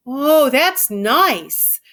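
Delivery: slow, drawn-out simple giant, pleased; dreamy Lenny. A narrator's reading. Lenny stroking her hair, slow and contented. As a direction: savour each word like a big child.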